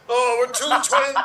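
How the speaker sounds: breaking up with laughter mid-line; laughing. Real, not acted. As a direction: giggle through the words.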